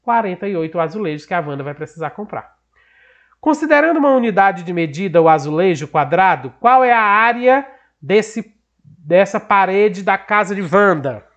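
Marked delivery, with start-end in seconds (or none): 3.4-11.2 emphatic, slowing textbook read-out; deliberate classroom reading; reading a question aloud. Acted. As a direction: read the problem out firmly, slowing towards the question.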